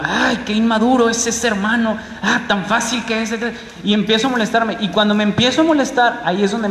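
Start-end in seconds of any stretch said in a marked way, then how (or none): 0.0-3.3 leve queja exasperada, imitándose a sí mismo; quéjate con fastidio fingido; molestia fingida. Acted. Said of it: "me molesto y digo". (fastidio actuado, sin gritar)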